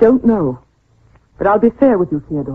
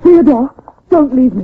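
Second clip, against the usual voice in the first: frightened plea; 4 semitones higher, 5 dB louder than usual. Acted. Wife alone in the dark.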